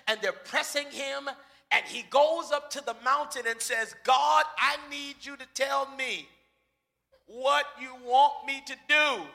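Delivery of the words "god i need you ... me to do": earnest prayer. Retold or imitated. Moses prays on the mountain.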